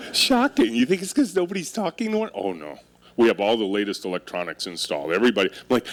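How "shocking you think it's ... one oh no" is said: sarcastic. Retold or imitated. Mocking the manager's complaint.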